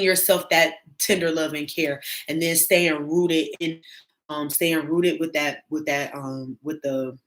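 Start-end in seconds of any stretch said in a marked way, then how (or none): 4.3-7.2 stumbling over repeated words; nervous stutter, restarting phrases. Real, not acted. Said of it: "I'm stuttering".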